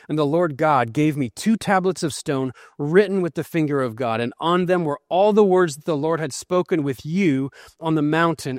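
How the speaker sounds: measured, formal Bible reading; scripture reading. Acted. Preacher reading scripture to congregation, formal and measured. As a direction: read the passage with weight to the congregation. Reads Deuteronomy passage aloud.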